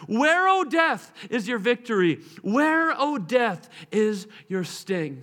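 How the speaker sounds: preacher's slow proclamation; scripture proclaimed. Acted. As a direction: declaim the verse triumphantly. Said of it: "The Bible says".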